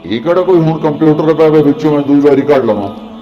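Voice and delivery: dismayed outburst. Acted. Rumi's outburst over lost books.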